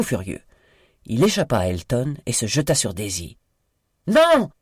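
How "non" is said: piercing, much higher shout; scream. A narrator's reading. Miranda screams as Tom leaps at Daisy, loud high cry. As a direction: cry out in horror. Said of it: "cria Miranda".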